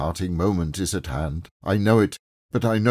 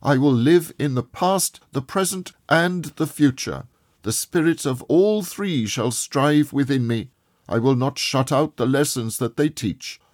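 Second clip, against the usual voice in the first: higher, louder fervent promise; crying out a vow; 9 semitones higher, 5 dB louder than usual. A narrator's reading. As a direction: swear it with all his heart. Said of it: "Scrooge cried".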